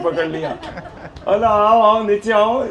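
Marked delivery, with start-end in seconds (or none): 1.5-2.7 loud triumphant call; gopis calling out. Acted. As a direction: call him down from up high, loud and gloating. Gopis catch Krishna, call him down. (ऊँची आवाज़ में विजयी पुकार)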